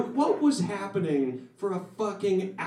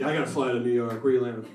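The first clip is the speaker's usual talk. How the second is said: low-pitched douchey LA dude; mock LA bro voice; 7 semitones lower than usual. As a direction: play a self-satisfied LA dude, low. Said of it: "that's like a fucking L A douchey dude".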